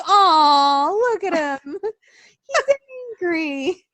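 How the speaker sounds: a fond aw that breaks into a laugh; cooing with laughter. Retold or imitated. Wife cooing at her angry husband, laughing. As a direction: tease him fondly, laughing. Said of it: "And I'd be like".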